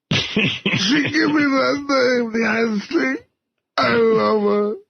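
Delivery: mock-tearful, voice breaking on the words; crying Iron Sheik. Asked on air to do the crying Sheik, mock sobbing. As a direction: fake a weepy sob through it. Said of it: "can you do the crying Iron Sheik".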